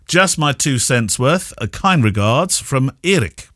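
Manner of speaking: listener's message read out with emphasis; reading aloud. Acted. Podcast host reading a wedding photographer's complaint aloud to co-host. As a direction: read it out, punching the key phrases.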